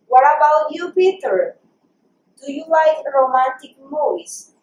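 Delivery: slow, careful dialogue reading; pronunciation model. Shown as a demonstration. Teacher reads Mary's questions to Peter, careful pronunciation model. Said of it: "una vez más voy a hacer la pronunciación".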